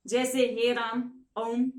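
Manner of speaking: राम and ओम with long drawn-out vowels. Shown as a demonstration. Teacher showing pupils a three-beat vowel, slowly drawn out. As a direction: stretch each vowel long. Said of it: "इसमें ज्यादा समय लगेगा".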